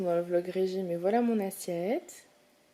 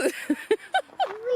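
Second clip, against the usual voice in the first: squealing laugh; 13 semitones higher than usual. Real, not acted. Laughing at own joke.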